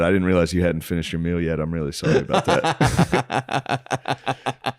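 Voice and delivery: slow, laughing fake sorry; mock apology. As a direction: drag out a sarcastic apology.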